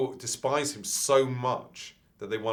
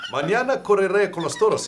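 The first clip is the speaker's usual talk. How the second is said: laughing; 10 semitones higher, 8 dB louder, faster than usual. Pretend. Hammy Spanish line.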